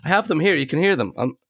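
stuffy nose, talking through a head cold; nasal voice. Real, not acted. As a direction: sound blocked up and nasal. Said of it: "'cause I sound very nasally".

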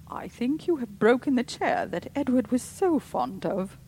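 loud, high and accusing; tense anger. A narrator's reading. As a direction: accuse him, barely controlled. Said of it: "Terror and wrath were struggling".

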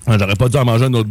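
talking through a mouthful; words round a bite of food; mouth full. Real, not acted. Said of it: "dans la bouche pleine encore".

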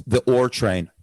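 "Ore train" with the letter R said as "or"; imitating her pronunciation. Host echoing the comic's name for a train, imitated Irish R. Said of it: "you make it sound like it's".

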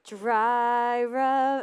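"Dry rub" drawn out, slow; TikTok dry rub. Retold or imitated. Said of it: "There's that TikTok, and it's like".

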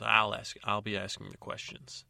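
loud, sharp cut-off; sharp interrupting. Acted. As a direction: cut her off forcefully. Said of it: "Agatha says".

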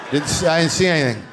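quick, shifty, know-nothing bystander; mock innocent denial. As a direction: rattle off a hurried denial. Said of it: "They just stood there like good drug addicts and just went".

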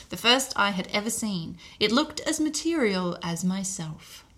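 put-on measured recital of an old account; reading aloud. A narrator's reading. Podcaster reads a séance sitter's newspaper account, measured recital. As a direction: read it out formally, phrase by phrase.

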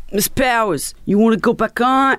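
mock yell from the promoter; calling out. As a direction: shout over the crowd's noise. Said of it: "he's yelling at me".

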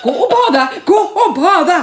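loud, high, laughing command; wife laughingly ordering husband to go swim; mock angry order. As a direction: shout it half-laughing, bossing him off. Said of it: "Janne blev så arg".

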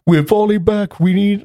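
high, urgent battlefield yell; panicked shout. Retold or imitated. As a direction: call the retreat in a panic. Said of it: "everyone's like".

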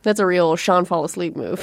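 laughing through the words; giggling while agreeing. Real, not acted. Both laughing at joke.

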